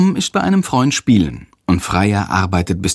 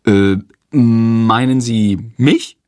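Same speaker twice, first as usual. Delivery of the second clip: slow, startled question; unsure and caught off guard; 4 dB louder, much slower than usual. Acted. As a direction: pupil startled when teacher points at him. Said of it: "tippt sich erschrocken".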